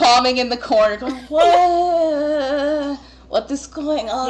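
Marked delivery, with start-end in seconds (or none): 1.3-4.3 startled cry. Acted. GM voices startled man.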